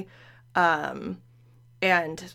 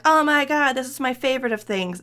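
higher, louder gush, lightly acted; mock gushing; 6 semitones higher, 5 dB louder than usual. Host quoting someone raving about a favorite, mock-excited. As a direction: imitate an excited fan raving.

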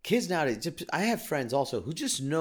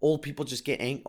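ordinary talk

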